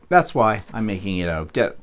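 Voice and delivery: hiccuping mid-sentence; hiccups. Real, not acted. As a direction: cut off by a hiccup.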